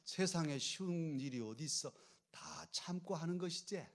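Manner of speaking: the line said in a Jeolla dialect lilt, 것이지 ending softened; a light Jeolla dialect take. Shown as a demonstration. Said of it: "이제 전라도 말로 하면".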